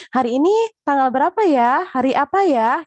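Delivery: lightly voiced teacher questioning children; teacher asking kids. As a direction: play the cheery classroom teacher.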